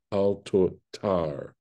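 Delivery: "al totar" slowly, as al to-TAR; slow down and lean on "tar" in "totar"; stress on final syllable. Shown as a demonstration. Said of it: "this is where the accent falls".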